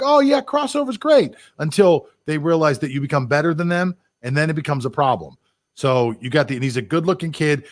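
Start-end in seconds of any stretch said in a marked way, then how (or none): 0.0-1.4 much higher, slow, sarcastic cheerleader voice; sing-song mock praise of people who pretend to welcome it; mock enthusiasm. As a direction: parody fake approval, drawn out. Mocking what people say.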